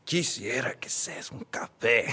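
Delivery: breathy hushed whisper of the line; whispered innocent pickup line; soft whisper. Retold or imitated. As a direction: whisper it shyly like a sweet nothing. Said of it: "He's like".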